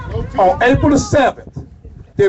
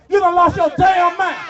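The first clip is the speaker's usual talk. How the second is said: raised, higher, punching each word out; repeated shout; 4 semitones higher than usual. Real, not acted. Leader repeating the line to the rally, shouting. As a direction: shout it back to the crowd again. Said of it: "y'all say it again".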